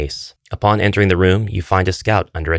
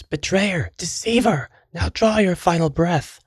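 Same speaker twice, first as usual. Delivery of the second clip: very high, strained mock scream; high-pitched cry of disbelief and fury, held back in level; acted scream; 13 semitones higher than usual. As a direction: scream it high without real volume, as a betrayed swordsman. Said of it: "turns in disbelief and screams".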